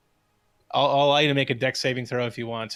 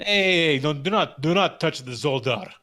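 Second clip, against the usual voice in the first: scolding; 3 semitones higher, 3 dB louder than usual. Acted. NPC scolding grabbing hand.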